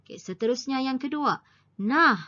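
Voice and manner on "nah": loud, exclaimed "Nah"; exclamation. Shown as a demonstration. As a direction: call out NAH as an interjection. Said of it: "nah ini juga ialah kata seru". ("Nah" dengan nada seruan yang kuat)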